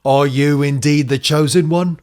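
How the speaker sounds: put-on lightly accented, measured elder; old echidna mentor. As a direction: play a cryptic elder with a touch of accent. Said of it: "that's, that's the voice".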